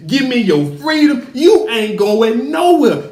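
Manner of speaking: emphatic mock tirade of a father laying down punishment; acted stern scolding. Acting out father's angry scolding.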